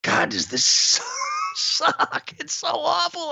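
high squeaky mock complaint about the game; mock exasperated whine. Bored fan mocking the awful match, squeaky exasperated whine.

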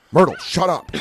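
high, loud exasperated yell; scolding the dog. Retold or imitated. Owner yelling at the barking dog in the hotel, retold scolding. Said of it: "the whole time going".

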